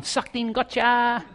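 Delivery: teasing gotcha with lifted pitch; playful mock taunt, as God laughing at the disciples. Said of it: "mocking them, going".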